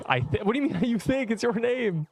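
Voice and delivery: high laughing protest; laughing disbelief. Real, not acted. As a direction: laugh through the words.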